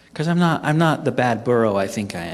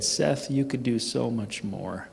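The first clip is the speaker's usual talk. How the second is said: clear inner voice; 3 semitones lower, 8 dB quieter, slower than usual. Retold or imitated. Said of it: "crystal clear".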